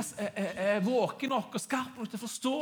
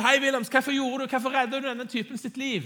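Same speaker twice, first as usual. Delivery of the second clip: higher, raised interpreter's retelling of a shout; crowd member calling; 4 semitones higher, 3 dB louder than usual. Retold or imitated. Interpreter relays a bystander challenging Williams, calling out. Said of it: "det en i mengden som roper".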